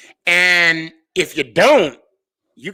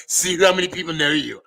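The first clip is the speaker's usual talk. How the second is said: imitating Philly Sports Fan. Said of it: "this is exactly how he sounded".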